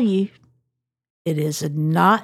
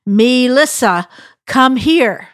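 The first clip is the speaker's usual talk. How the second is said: grandmother calling, a bit higher and louder; 4 semitones higher, 4 dB louder, slower than usual. Retold or imitated. Grandmother summoning her granddaughter, calling firmly. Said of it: "she would put the emphasis on the me part".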